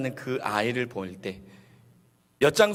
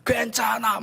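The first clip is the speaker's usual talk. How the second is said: high, repeated mock group cheer; imitated consoling friends; 10 semitones higher than usual. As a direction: rally round a losing friend. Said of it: "막 우르르 나와서 그 친구를 안아주면서".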